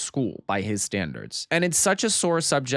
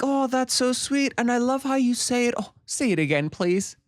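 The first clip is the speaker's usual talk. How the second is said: syrupy sweet guest; 12 semitones higher than usual. Retold or imitated. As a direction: gush with mock delight, dripping with sarcasm. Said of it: "Pina's like".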